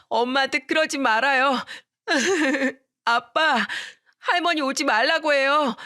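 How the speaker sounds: a small son sobbing for his father; child crying. Retold or imitated. (울며 아빠를 찾는 어린 아들)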